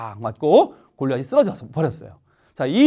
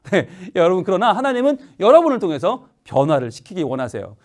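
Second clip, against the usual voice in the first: ordinary talk, nothing marked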